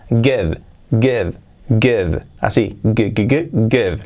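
"give" with the final vowel dropped; "give" ends sharply on the V; "give" said as "gev"; clipped give. Shown as a demonstration. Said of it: "la E desaparece".

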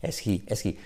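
HE breathed softly, like misting glasses; aspirated H. Shown as a demonstration. Teacher after the glasses tip, HE aspirated. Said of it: "como limpiando las gafas".

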